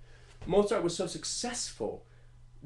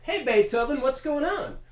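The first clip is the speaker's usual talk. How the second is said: very high, loud, bubbly shouting; bursting with smug glee; giddy high-pitched show-off shout; Mozart mockery; 12 semitones higher, 7 dB louder than usual. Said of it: "Mozart would be like".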